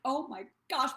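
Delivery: over-the-moon thrilled gasp; bursting excitement. Shown as a demonstration. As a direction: gush like you can't hold it in. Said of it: "my head's gonna blow off excited".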